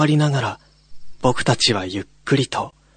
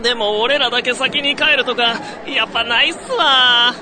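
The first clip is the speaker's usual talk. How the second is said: put-on casual young guy; 11 semitones higher than usual. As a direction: shrug it off as a student. Young man character. (軽い後輩口調)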